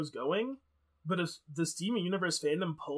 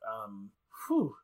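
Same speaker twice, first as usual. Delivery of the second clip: shaky sigh; 6 semitones lower than usual. Real, not acted. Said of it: "I'm trying not to cry".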